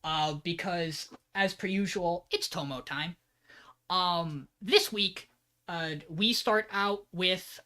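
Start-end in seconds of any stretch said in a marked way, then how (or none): 2.3-3.2 "it's Tomo time" whispered. Shown as a demonstration. Podcast host whispering the segment name to cohost. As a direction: breathe it like a secret. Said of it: "whispered catchphrase".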